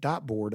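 "Dot board" with dot in place of dart. Retold or imitated. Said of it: "She pronounced it dot".

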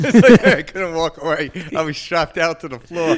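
loud, high, laughing protest. Real, not acted. Joking to co-host about dad's belt, loud and laughing. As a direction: shout it through real laughter.

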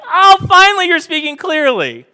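high, loud mock exclamation; a loud, high-pitched mock 'oh finally'; mocking disciples. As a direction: ham up the dim-witted disciples. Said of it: "These guys are morons".

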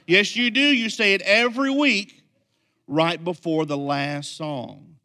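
put-on high, loud, insistent child voice; a kindergartner who's sure he's right; a little boy loudly correcting the pastor; insistent kid. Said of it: "He goes".

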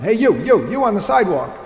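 a hint of a booming heavenly voice, calling out; mock voice from the cloud. Preacher retelling the Monty Python cloud, lightly voiced call. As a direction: call down to a passerby like a cartoon God. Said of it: "God the Father saying".

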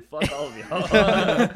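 slow, loud laughing defiance; defiant callout. Retold or imitated. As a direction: drag it out, daring them.

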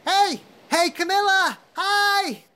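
high, eager calling out to Camilla; excited calling out. Acted. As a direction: call her name like an overexcited fan. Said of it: "she sees Emily going".

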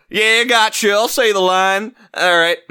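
a hint of an eager booth actor; Mark. Actor in the recording booth agreeing, lightly put on. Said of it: "this guy named Mark".

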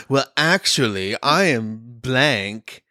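put-on slow, know-it-all valley girl; smug valley girl correcting. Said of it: "your D N A voice like a Valley Girl".

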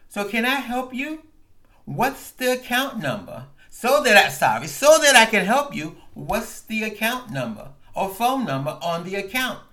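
a hint of an automated menu voice; lightly voiced phone robot. Retelling the call, a light robotic phone menu voice.

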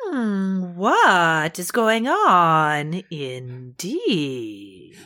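slow sly innocence; knowing. Acted. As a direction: drag it out knowingly. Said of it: "your knowing voice".

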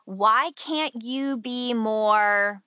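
slow, drawn-out reproachful question; inner critic's voice. Acted. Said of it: "Or things like".

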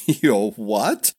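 brash amused chortle; chortling. A narrator's reading. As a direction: chuckle through it with a grin. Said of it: "chortled Niles with a brash grin".

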